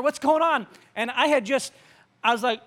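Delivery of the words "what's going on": higher-pitched quote; mildly urgent imitation; imitated alarmed question. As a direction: ask it high, as someone walking in. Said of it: "So she came in there".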